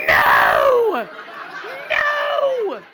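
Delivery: high, loud protest through laughter; laughing yell. Retold or imitated. Woman defending her dance space from the crowd, laughing shout. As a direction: holler it in mock outrage, laughing. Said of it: "And I'm like".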